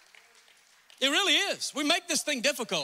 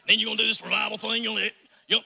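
put-on Dawsonville accent; 4 dB louder, much faster than usual. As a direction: slip into a folksy Dawsonville accent. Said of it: "I'm speaking Dawsonville".

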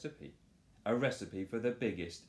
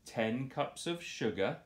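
shout; 5 semitones higher than usual. Acted. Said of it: "shouts Morris".

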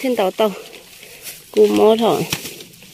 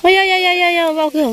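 calling from far away; 8 semitones higher, faster than usual. Real, not acted. Calling out across distance.

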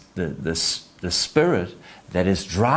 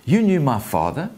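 higher, questioning surprise; Simba's surprise; 6 semitones higher, 3 dB louder than usual. Acted. Simba to the monkey about his father, surprised. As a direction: raise the pitch in mild disbelief. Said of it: "Simba then says".

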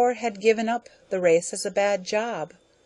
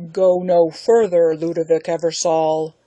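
mighty roar; 7 dB louder than usual. Acted. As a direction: thunder the warning. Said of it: "a mighty voice roared from within".

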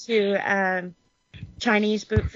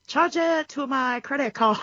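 slightly higher, prim mock white-person voice; white person impression; 5 semitones higher than usual. Retelling a comedian's joke in a mild mock white-person voice. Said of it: "his best impression of a white person".

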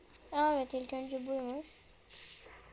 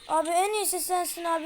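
frantic flattery; 3 semitones higher, 5 dB louder, faster than usual. Real, not acted. Flattering angry baby in panic.

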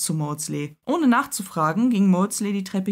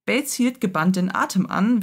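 plain reading voice

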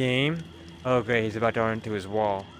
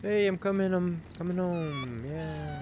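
roleplaying the character; 5 semitones higher, 4 dB quieter than usual. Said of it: "Sorry, I'll roleplay".

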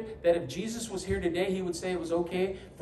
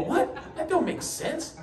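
laughing disbelief; 10 semitones higher, slower than usual. Retold or imitated. Group reacts to the mangled verse.

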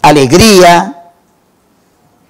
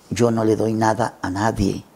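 much softer, said to himself; thinking to himself; 6 semitones lower, 12 dB quieter than usual. Retold or imitated. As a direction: keep it inside his head, far softer. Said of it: "Y empieza a pensar". (pensando para sí, mucho más bajo)

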